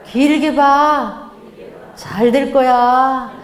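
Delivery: slow, gentle words of praise; warm praise. Shown as a demonstration. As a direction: say it slowly, like a real blessing. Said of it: "이 말을 많이 하셔야 되는데". (천천히 따뜻하게 칭찬하듯)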